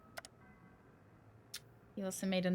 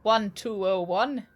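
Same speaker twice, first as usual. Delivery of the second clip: Il Capitano voice; 5 dB louder than usual. Acted. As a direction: play the newcomer as a careful gentleman.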